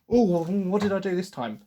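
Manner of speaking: a hint of a fed-up klutzy girl asking innocently; clumsy teen girl. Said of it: "just sort of".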